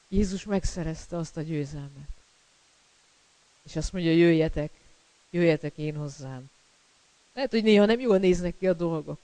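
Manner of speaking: usual speaking voice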